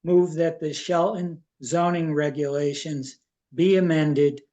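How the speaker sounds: measured reading, phrase by phrase; deliberate reading aloud. Real, not acted. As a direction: read out the motion carefully, pausing between clauses. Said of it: "I'll read it slowly".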